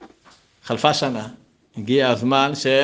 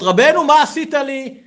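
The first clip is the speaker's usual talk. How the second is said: much higher, louder, slow mock wail; wailing complaint; 13 semitones higher, 8 dB louder than usual. Yitzchak wailing to his rebbe, hammed-up crying. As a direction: lament to the rebbe, high and drawn out. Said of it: "מתחיל לבכות".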